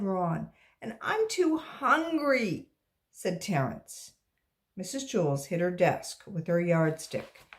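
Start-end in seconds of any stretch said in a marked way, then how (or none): 0.8-2.7 hungry. Acted. Hungry child.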